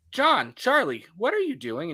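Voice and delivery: a held-together calm tone; forced calm. Retold or imitated. Mom calling out the two boys with forced calm. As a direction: keep it level, holding anger back. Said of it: "It's like she stays calm".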